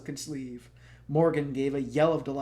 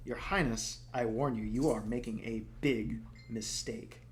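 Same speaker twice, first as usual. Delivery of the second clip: wobbly voice. Acted. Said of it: "Her voice came out wobbly".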